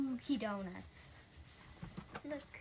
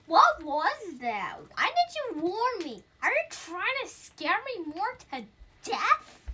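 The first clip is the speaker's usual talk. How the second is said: louder, higher startled ghost; scared ghost; 4 semitones higher, 9 dB louder than usual. Acted. Ghost startled by the costume party, loud and higher. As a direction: play the ghost spooked then covering. Reads frightened ghost lines.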